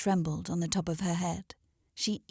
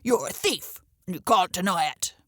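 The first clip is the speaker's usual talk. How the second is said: accusing cry; 5 dB louder than usual. A narrator's reading. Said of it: "a hoarse voice suddenly cried".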